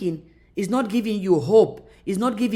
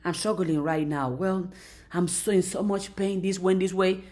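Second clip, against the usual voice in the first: quiet struggling; 3 semitones lower, 6 dB quieter than usual. Retold or imitated.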